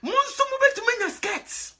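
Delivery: high, loud declaration; emphatic promise. Real, not acted. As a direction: insist on it with force.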